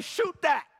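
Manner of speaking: high mock shout of a teammate; teammate's call. Tall teammate urging the pastor to shoot, mock shout. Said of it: "He told me".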